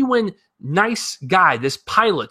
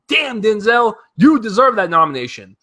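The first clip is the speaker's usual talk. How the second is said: impressed exclamation; 5 semitones higher, 4 dB louder than usual. Retold or imitated. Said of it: "I was like".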